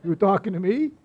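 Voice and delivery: a light De Niro tough-guy challenge; half-playful tough-guy taunt in a De Niro voice; Robert De Niro impression. Preacher voicing Peter as De Niro at the congregation, lightly mock-tough. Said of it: "doing his best Robert De Niro".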